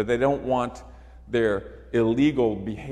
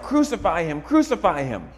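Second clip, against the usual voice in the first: mild mock shout; 4 semitones higher, 5 dB louder than usual. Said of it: "They shout".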